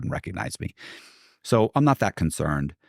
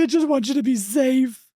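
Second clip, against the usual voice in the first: much higher, put-on voice of a fretting mother; worried drama-queen mother. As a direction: mimic her dramatic mom, pitched way up and pleading. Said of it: "And she's like".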